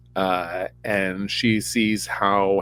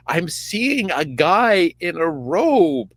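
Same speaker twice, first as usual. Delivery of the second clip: 1 witch answering; 6 semitones higher, slower than usual. Retold or imitated. Witch voiced answering Saul.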